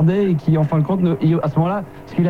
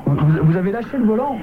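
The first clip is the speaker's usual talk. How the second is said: cracked, hoarse voice; 2 semitones higher than usual. Real, not acted. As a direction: speak with a broken, hoarse voice. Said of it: "j'ai la voix cassée en plus".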